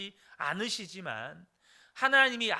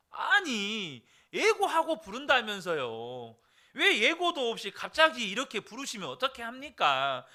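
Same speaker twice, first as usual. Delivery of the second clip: mock angry old man; 3 semitones higher than usual. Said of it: "막 성을 내는 거예요".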